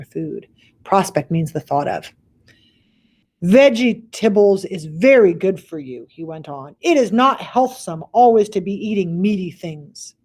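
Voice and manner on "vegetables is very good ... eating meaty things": louder, lightly voiced preachy giant; BFG's voice. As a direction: sell health like a salesman. BFG lecturing about healthy food.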